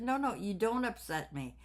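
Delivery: insistent retold reassurance. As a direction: earnestly reassure him, as retold. Reassuring her upset ex-husband.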